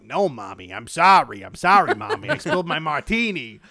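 whining apology with swooping pitch; little Italian boy. Retold or imitated. Podcaster mimics flashback boy apologizing to his mother, mock Italian-boy voice. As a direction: imitate a little Italian boy pleading, stressed words punched. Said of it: "the little Italian boy voice".

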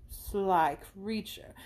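very slow, drawn-out teasing; playful scold. Acted. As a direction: savour the mock accusation. Isabella teases.

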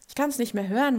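an exasperated loud repeat; emphatic. Real, not acted. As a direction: throw it out with exasperation.

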